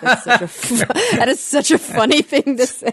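high-pitched, giggly amusement; real laughter breaking up the words; laughing while talking. Real, not acted. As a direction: talk through helpless laughter. Cracking up at the phrase.

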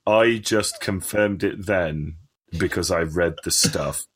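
slow, deadpan parroting of a friend's words; mocking echo. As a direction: repeat it back slowly so he hears how silly it is. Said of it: "say back to you what you just said".

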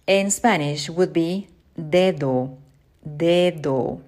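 dedo spoken clearly for learners; Spanish word. Shown as a demonstration. Teacher modelling dedo for students. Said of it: "A finger".

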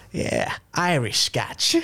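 slow, laughing through a mock American line; laughing quote. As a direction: drag it out while cracking up. Quoting the man, laughing.

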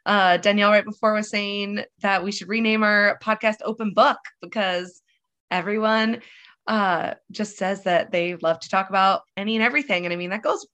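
stuffy nose from a cold; talking through a blocked nose; nasal voice. Real, not acted. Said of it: "so if I sound nasally".

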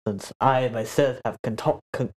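put-on slurring drunk bartender; blackout drunk. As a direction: stumble over the word drunkenly. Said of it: "he's slurring his words pretty bad".

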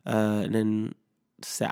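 usual speaking voice

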